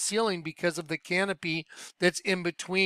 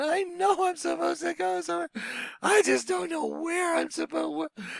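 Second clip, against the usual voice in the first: mock crying through the words, very high; 11 semitones higher than usual. Retelling a tearful talk with a mentor: imitating own past weeping. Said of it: "just sat there and wept in front of him".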